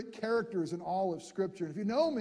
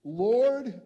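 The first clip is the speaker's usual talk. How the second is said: called out; 3 semitones higher, 8 dB louder than usual. Acted. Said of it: "And Peter answered him".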